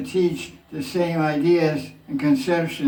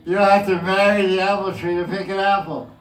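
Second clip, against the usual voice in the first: amused emphatic restatement; 3 semitones higher than usual. Shown as a demonstration. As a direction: say it again with a laugh in your voice. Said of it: "You know what I said?".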